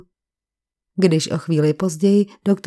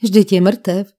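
horrified cry; 4 dB louder, slower than usual. A narrator's reading. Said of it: "vykřikl zděšeně".

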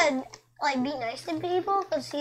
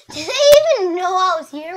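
louder, fast, offended question; indignant outburst; 3 semitones higher, 11 dB louder, faster than usual. Real, not acted. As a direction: blurt it out, annoyed and fast. Indignant outburst at other players.

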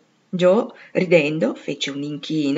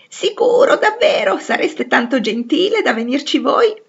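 exclaiming; 7 semitones higher, 4 dB louder than usual. A narrator's reading. Lori delighted that Joe will come visit, exclaiming high. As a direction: burst out much higher and louder with delight. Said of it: "esclamò Lori".

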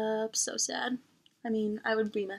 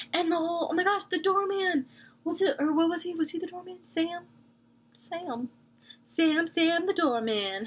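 much higher and louder, excited rush; gushing; 8 semitones higher, 4 dB louder than usual. Real, not acted. Fan gushing over the doorman, excited and high. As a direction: gush about him, pitched up and loud. Gushing about a favourite character.

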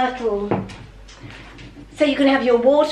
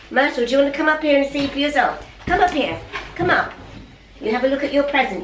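fast, higher coaxing pet voice; calling the dog; 3 semitones higher, faster than usual. Real, not acted. Owner urging dog Myrtle to come see, fast coaxing. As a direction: hurry the dog up with bright quick coaxing.

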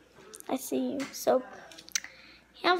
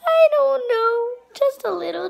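laughing; 9 semitones higher, 4 dB louder than usual. Real, not acted. Laughing after icing burst.

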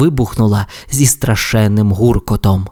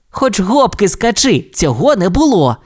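stubborn denial; 9 semitones higher than usual. Acted. Race car keeps denying, stubborn. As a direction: refuse to budge. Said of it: "не вгавав Блискавка".

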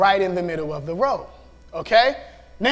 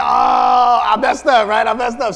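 admitting a mistake; 7 dB louder than usual. Retold or imitated. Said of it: "I'm like".

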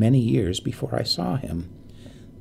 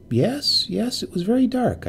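said quickly; 11 semitones higher than usual. A narrator's reading. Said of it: "I said quickly".

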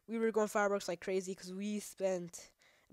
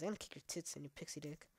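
mock threat; 3 semitones lower, 9 dB quieter, faster than usual. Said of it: "I'm over-exaggerating".

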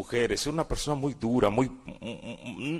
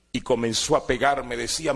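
usual speaking voice

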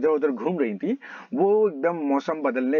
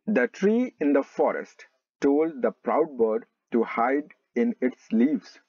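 slow, measured storybook narration; deliberate classroom reading; slow story read-aloud; much slower than usual. A narrator's reading. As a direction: read it out phrase by phrase, slowly.

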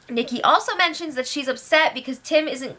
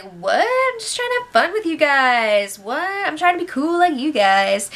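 innocent Levita; 4 semitones higher than usual. Retold or imitated. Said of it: "Levita's just like".

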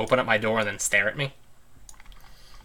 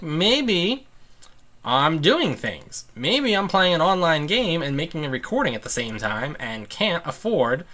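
higher, drawn-out sarcasm; mock retort; sarcastic complaint to demanding family; 6 semitones higher, slower than usual.

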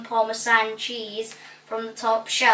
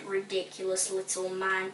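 low, soft grumble under the breath; dame's hushed, low aside; muttering; 3 semitones lower, 9 dB quieter than usual. A narrator's reading. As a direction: mutter it with disdain. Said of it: "The Dame muttered".

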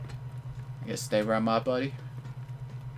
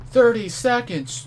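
surprised outcry; 11 semitones higher, 7 dB louder than usual. Real, not acted.

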